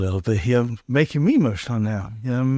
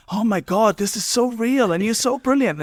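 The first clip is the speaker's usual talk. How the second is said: high, gushing mock rave chat; 10 semitones higher than usual. Mocking old kitchen-table friends, high and gushing. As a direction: sends up the starry-eyed late-night talk, pitched way up.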